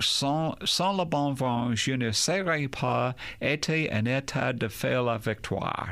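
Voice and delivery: put-on French quote in an American accent; foreign accent in French. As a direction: say the French line with an English accent. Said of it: "forgive me, my French is not good".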